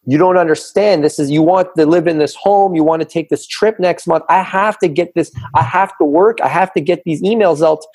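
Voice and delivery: mock rant at the wife; imitated yelling. Husband snapping at wife over working late, mock yell. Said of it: "I'm, like, yelling at her".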